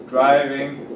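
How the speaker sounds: drawn-out, falling words; slow model reading. Shown as a demonstration. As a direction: say it slowly word by word for students. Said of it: "slow repetition model".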